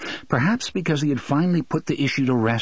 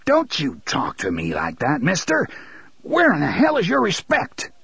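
furious father; 5 semitones higher than usual. Acted.

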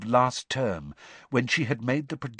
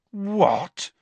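disbelief; 10 semitones higher than usual. A narrator's reading. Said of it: "said Ron in disbelief".

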